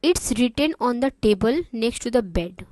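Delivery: slow, even reading; slow and clear. Shown as a demonstration. Teacher reading the receptionist's answer slowly. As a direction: read it slowly for beginners. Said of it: "मैं इतना आराम आराम से इसलिए बोल रही हूँ".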